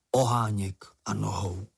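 ordinary delivery

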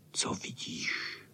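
hushed, slow whisper; whispered question. A narrator's reading. Boys peeping through the keyhole, whispering. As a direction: breathe it out so nobody hears. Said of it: "šeptali všichni".

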